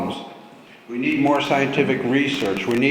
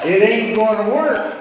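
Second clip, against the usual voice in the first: put-on southern drawl, higher and louder; 7 semitones higher, 4 dB louder than usual. Shown as a demonstration. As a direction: lean into a hammed-up Southern accent. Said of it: "I'm gonna start talking with my southern drawl".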